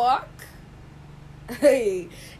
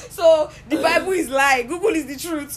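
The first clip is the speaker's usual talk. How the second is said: laughing; 3 semitones higher, 5 dB louder than usual. Real, not acted. Joking reply through laughter.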